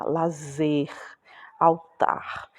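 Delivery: Lazer and altar, each leaning on its final syllable; stress on last syllable. Shown as a demonstration. Teacher listing R-ending words, stress on the last syllable of Lazer, altar. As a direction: put the force on "zer" in Lazer and "tar" in altar. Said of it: "a gente faz mais força pra falar".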